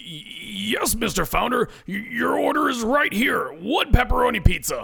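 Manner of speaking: anxious, nervous, high-pitched voice. Ed answers the founder who asked whether his order is ready, nervous. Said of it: "His hands shake as he nervously replies".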